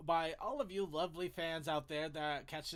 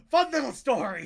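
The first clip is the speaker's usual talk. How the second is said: loud, higher ironic catchphrase; 6 semitones higher, 14 dB louder than usual. Acted. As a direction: belt out the catchphrase sarcastically. Ironic repeat of catchphrase, louder.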